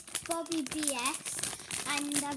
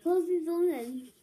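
cheeks stuffed full; 3 semitones higher, 7 dB louder than usual. Real, not acted. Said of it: "this is hard to get in".

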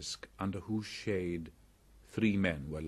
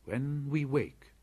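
put-on young boy voice; 6 semitones higher, 5 dB louder than usual. Mowgli gives orders.

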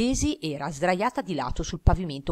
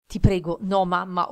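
pleading through tears; 6 dB louder, slower than usual. Acted. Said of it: "ho detto piangendo".

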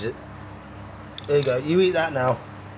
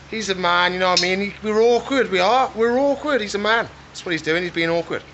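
higher mock grumble; mock exasperated; 8 semitones higher than usual. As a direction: playfully moan that he's being awkward. Mock-grumbling about awkward male lizard.

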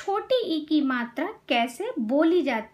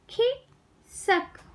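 खिसक very slowly, pause after खि; syllable by syllable; 6 semitones higher, much slower than usual. Shown as a demonstration. Teacher teaching kids to read, syllables apart. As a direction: break खिसक into खि - सक. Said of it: "शब्द पढ़ना सिखाऊंगी".

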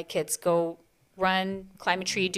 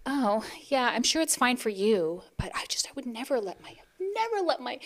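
pearl-clutching whisper; 5 semitones higher than usual. Retold or imitated. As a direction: murmur it primly, clutching pearls. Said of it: "She's like".

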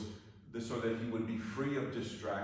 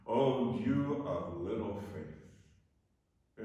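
slow, drawn-out mild reproach; lightly voiced Jesus; much slower than usual. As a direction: stretch it out as a lightly acted rebuke. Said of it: "What did Jesus say to Peter".

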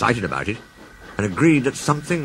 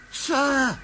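gasped; 5 dB quieter than usual. Acted. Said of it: "gasped Douglas".

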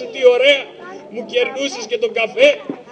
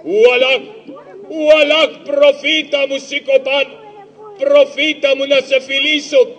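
overjoyed son; 3 semitones higher, 4 dB louder than usual. Acted. Pasha's son overjoyed by prophet.

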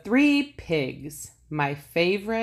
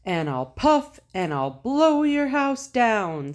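louder, huffing big bad wolf; 4 semitones higher, 4 dB louder than usual. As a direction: blow hard like a wolf. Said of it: "said the wolf".

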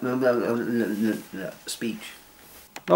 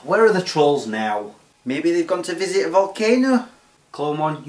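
ordinary talk, nothing marked

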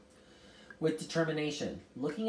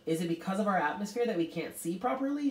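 higher, quicker worried question; anxious; 6 semitones higher, faster than usual. A narrator's reading. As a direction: ask with mild anxiety. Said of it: "she asked anxiously".

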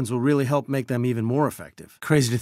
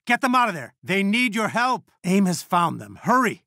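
raised, pressing rescue call; urgent plea; 5 semitones higher than usual. Acted. Commander begging heroes to save the team, urgent plea. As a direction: plead with them to hurry, pitch up.

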